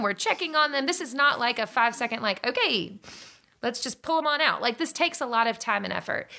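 pleading her point, wound up and insistent; worked-up insistence. Retold or imitated. To herself about the frozen embryos, urgently insistent. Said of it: "I'm like".

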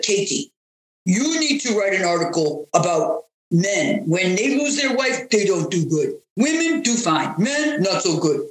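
lightly put-on Russian accent; terrible Russian accent. Coach quoting a Russian doctor's advice, terrible Russian accent. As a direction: imitate a Russian doctor with a hint of bad accent. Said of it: "Terrible accent, but that's what he was like".

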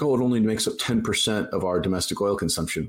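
lightly voiced airy press secretary brush-off; a hint of a dismissive spokesperson; mocking Jen Psaki. Jen Psaki shrugging off the oil question, light mocking imitation. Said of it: "And she's like".

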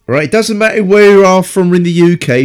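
mock rural English accent; West Country accent. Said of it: "you talk like that".

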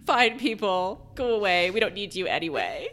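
playful huffy dismissal of listeners; mock insulting banter. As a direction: brush them off in mock offence. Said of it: "now I'm turning to, like, insulting banter".

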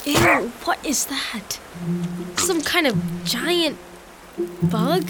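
slow, hushed, puzzled disgust; wary disgust. Acted. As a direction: inspect it warily, drawing the words out. Puzzled by a strange insect.

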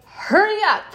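high-pitched imitation of impatient yelling; mock yell. Mother hurrying her young son on the walk, mock yell. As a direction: call it out high, as if hurrying a child along. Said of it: "yelling at him".

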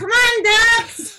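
put-on very high, drawn-out babyish call; screaming baby talk. Shown as a demonstration. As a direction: squeal it slowly in baby talk. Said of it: "me screaming in baby talk".

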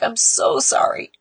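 breathless whisper of sorry; barely voiced, broken apology. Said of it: "He's like".

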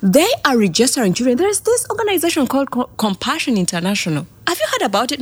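high, loud and fast telling the news; customer's voice. Retold or imitated. Customer telling mother about the registration, high and loud. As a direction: rattle it off up high, bursting to share. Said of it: "he's like".

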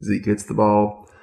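slow, measured golf commentary; proper-voiced commentator, unhurried. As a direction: call the shot slowly and properly. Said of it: "Nice, proper voice, slow speaking".

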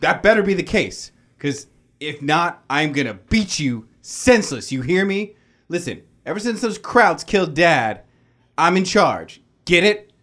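threatening big brother. Acted.

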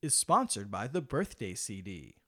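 upbeat ad read, salesman voice; infomercial. Acted. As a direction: pitch it like a cheesy TV ad. Sponsor ad read on podcast.

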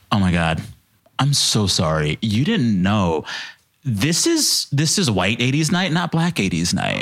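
mock-earnest apology; retold earnestness. DJ explaining white eighties night, mock earnest. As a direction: apologize with exaggerated sincerity. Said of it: "looks at me really earnestly".

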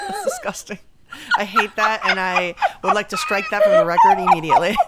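shrieking with laughter, grossed out; laughing disgust. Real, not acted. Friend reacting to a gross phrase, shrieking laugh.

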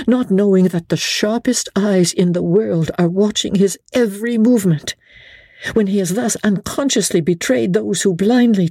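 a wife pressing for help; Lady Blakeney's voice. A narrator's reading.

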